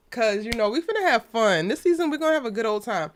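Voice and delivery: talking around a cough drop; words round a lozenge in the mouth; mouth full. Real, not acted. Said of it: "Don't mind what's in my mouth".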